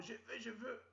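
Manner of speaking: high, whining I want; whiny girlfriend. Retold or imitated. Girlfriend begging her boyfriend, high and whiny. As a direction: whine it up high like a needy girlfriend.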